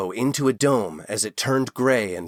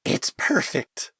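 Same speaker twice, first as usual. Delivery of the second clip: tearful whisper; 5 semitones higher than usual. A narrator's reading.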